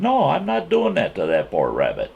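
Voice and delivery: high-pitched protest, falling at the end; protesting on the poor rabbit's behalf; retold indignant refusal. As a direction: act out refusing a friend outright.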